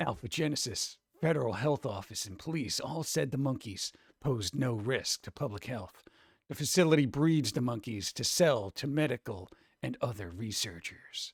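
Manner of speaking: hushed, menacing, sinister villain voice. Rereading a news item aloud, this time in a sinister voice. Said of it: "let's do it in sinister voice".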